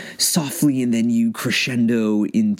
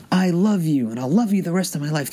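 higher, rushing the rest of the line; higher and tumbling out fast; spontaneous third take; 9 semitones higher than usual. Shown as a demonstration. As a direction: take three, higher with a quick finish. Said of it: "Okay, take three".

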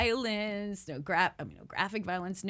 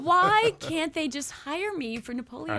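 mock indignation; 3 semitones higher, 4 dB louder than usual. Actress jokes about losing Napoleon role, mock-indignant. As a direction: protest in pretend outrage.

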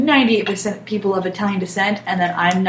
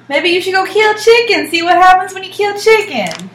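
challenging; 7 semitones higher, 8 dB louder than usual. Acted. Co-host challenging the host.

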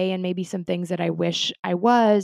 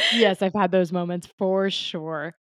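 laughing; slower than usual. Real, not acted. Laughing agreement.

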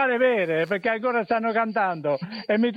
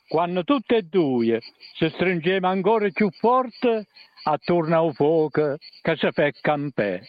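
theatrical swelling poetry reading. Shown as a demonstration. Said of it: "recita la poesia Te voglio bene in dialetto tursitano".

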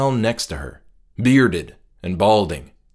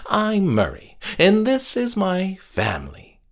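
creepy cheerful host; 3 semitones higher than usual. Acted. Captor's cheerful dinner hosting.

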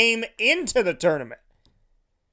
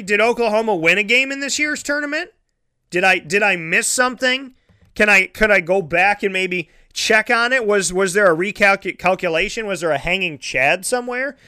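sarcastic; 2 semitones higher than usual. Acted. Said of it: "And I'm being sarcastic".

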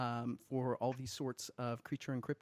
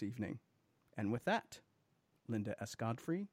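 booming radio host introduction; radio announcer voice. Pretend. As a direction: announce the guest like on air. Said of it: "kick into radio announcer voice".

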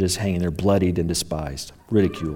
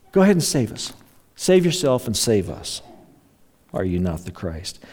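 sneering. Retold or imitated. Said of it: "He's, he's sneering at Jesus".

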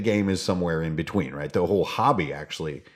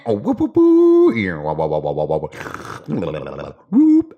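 excited whoops; 3 semitones lower, 5 dB louder, slower than usual. Real, not acted. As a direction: whoop it up like a cheering fan. Whooping after skit ends.

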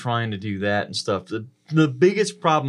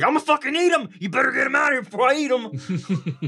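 much higher, shouted cartoon dog threat; high laughing growl-free villain dog; dog's mock threat; 14 semitones higher, faster than usual. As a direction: voice the dog as a hammed-up bully. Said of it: "she's like".

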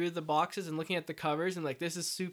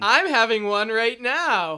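talking through a mouthful; words round a bite of burger; mouth full; 5 semitones higher, 11 dB louder, slower than usual. Real, not acted. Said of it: "He's holding a Big Mac in his hand".

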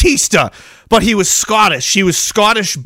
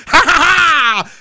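big laugh; 8 semitones higher, much slower than usual. Real, not acted. Laughing at own story.

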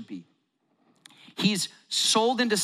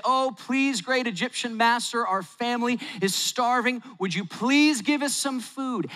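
higher pleading voice of begging brothers; groveling beg; 5 semitones higher than usual. Acted. Brothers begging the Egyptian master, higher and pleading.

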